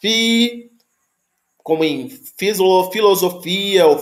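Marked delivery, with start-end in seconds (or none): 0.0-0.7 "fi" with an F sound; "fi" the easy way. Shown as a demonstration. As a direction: say "fi" with a clear F. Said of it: "Se você preferir dizer".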